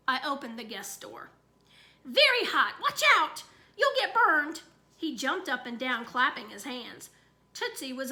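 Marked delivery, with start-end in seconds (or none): 2.0-4.6 high, loud, gleeful shouts; a kid jumping up and down shouting; excited yelling. Acted. Child excitedly yells in game.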